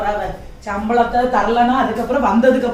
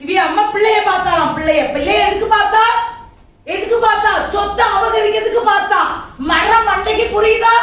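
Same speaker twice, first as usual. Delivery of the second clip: higher, louder furious ranting; angry rant; 8 semitones higher, 6 dB louder than usual. Acted. Wife rants alone about mother-in-law, loud and furious. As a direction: rage at him after the door shuts. Ranting angrily after husband leaves.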